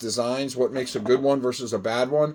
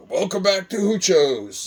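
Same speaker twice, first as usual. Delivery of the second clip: light imitation of a YouTuber's Australian accent; a quick, mild Aussie accent for the channel intro; a hint of an Australian accent, higher; 5 semitones higher than usual. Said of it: "his funny little Aussie accent".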